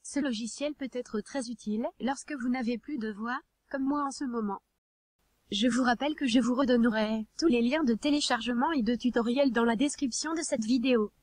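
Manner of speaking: even, machine-read text to speech narration; synthetic text to speech voice. Real, not acted. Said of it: "comme je le fais actuellement".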